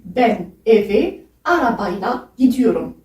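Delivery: slow, careful Turkish "ben eve arabayla gidiyorum"; each word clear for learners; slow Turkish variant. Shown as a demonstration. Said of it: "On peut dire aussi".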